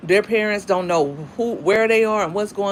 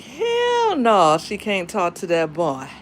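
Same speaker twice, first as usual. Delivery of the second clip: put-on country accent; slower than usual. Stepdad forbidding boy talk, mock country accent. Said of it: "He have a country accent".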